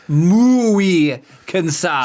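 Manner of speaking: "Muy cansada" dragged out very slowly, as if exhausted; acting tired. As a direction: stretch out "Muy cansada" like you're worn out. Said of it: "Kara es muy cansada".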